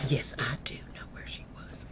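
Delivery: low, very soft, near whisper; hushed firm answer. Retold or imitated. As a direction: answer her softly and deliberately. Mama answers angry daughter.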